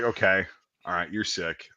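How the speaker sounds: low, soft imitation of an easing-up sergeant; lenient, not screaming. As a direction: retell it as quiet, practical care. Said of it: "We're not gonna fucking scream at you".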